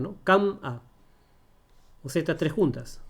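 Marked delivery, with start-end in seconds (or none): 0.2-0.8 "Cam-a" broken after the m; wrong syllable split. Shown as a demonstration. Teacher showing how we don't talk, split "Cam-a". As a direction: hold "Cam", then a separate "a" in "Cam-a". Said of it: "Así no hablamos".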